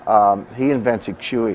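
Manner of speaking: invented slow and weighted; stress on invented. Real, not acted. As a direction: lean on "invented", deliberately slow. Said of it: "I want to emphasize the word invented".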